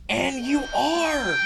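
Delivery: slow, high mocking aside; deadpan jab. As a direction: drop it slowly as a dry insult. Jab at delusional critic.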